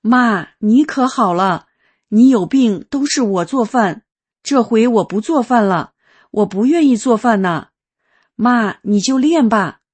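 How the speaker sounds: voicing the son's weepy relief, mildly; retold crying son. Son to his healed mother, through mild mock tears. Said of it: "孩子就哭了".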